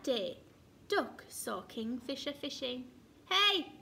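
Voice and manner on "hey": high, loud call to halt; sharp, bossy shout. A narrator's reading. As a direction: shout to catch someone out. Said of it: "he shouted".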